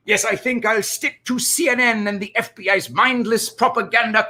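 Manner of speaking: wavering Saul-style lawyer voice, slipping in and out. Acted. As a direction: recite it as a slick lawyer, the accent drifting. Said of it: "I felt my Saul accent kinda going in and out there".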